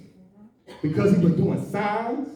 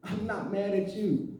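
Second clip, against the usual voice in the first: softer and slower denial; hushed, measured reassurance; restrained insistence; 10 dB quieter, slower than usual. Retold or imitated. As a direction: repeat it quietly, drawing it out. Retold denial, repeated slowly and quietly.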